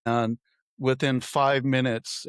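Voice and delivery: ordinary talk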